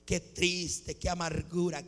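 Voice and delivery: low, soft self-pitying moan; mock lament. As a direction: moan it quietly, feeling sorry for yourself. (lamento fingido, quejumbroso)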